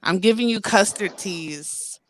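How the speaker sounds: talking with retainers in; words shaped around a retainer; wearing a retainer. Real, not acted. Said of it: "I got my retainers in".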